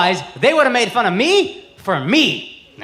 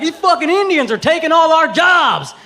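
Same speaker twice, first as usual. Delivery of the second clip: mock redneck; 6 semitones higher, 3 dB louder than usual. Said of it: "racist redneck would be like".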